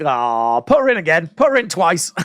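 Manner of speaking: mild, near-plain doting "put her in again", normal pitch; half-hearted fond plea, close to her own voice; lightly voiced fond plea. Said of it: "you're like".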